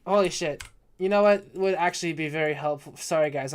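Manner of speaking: talking while tipsy. Real, not acted. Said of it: "I'm so fucking drunk right now".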